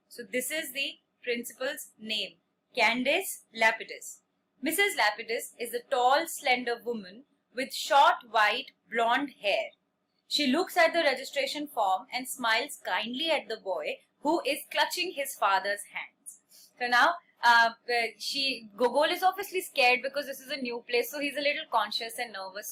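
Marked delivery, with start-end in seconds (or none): 4.6-16.4 slow, measured classroom reading; story read-aloud. A narrator's reading. Teacher reading a story to a class, measured read-aloud. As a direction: read it out slowly, phrase by phrase.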